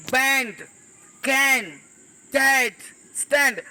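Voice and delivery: बैंड, कैन, डैड each alone with open AE; short A sound. Shown as a demonstration. Teacher continuing the AE examples, spaced word drill. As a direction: drill बैंड, स्टैंड with AE, pausing between words. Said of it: "मतलब इसको N".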